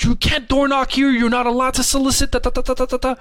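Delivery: high, whiny mock lecture; ranting homeowner. Homeowner lecturing about soliciting, high whiny mock voice. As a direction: nag like a fussy rich neighbor.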